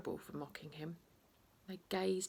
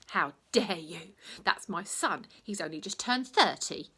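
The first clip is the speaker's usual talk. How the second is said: screamed; 5 dB louder than usual. Acted. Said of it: "screamed the referee".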